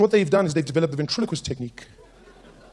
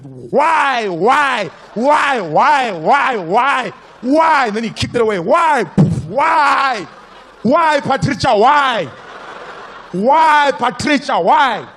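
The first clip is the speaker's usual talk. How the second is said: very high, loud repeated yelling; screaming uncle; 7 semitones higher, 8 dB louder, much slower than usual. Retold or imitated. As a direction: scream in despair at wife.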